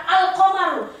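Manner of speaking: "al komaru" with the l fully sounded before ko; clear lam. Shown as a demonstration. Teacher reading a Quran example, clearly articulated "al komaru". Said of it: "Kau harus baca huruf ko-nya dengan jelas".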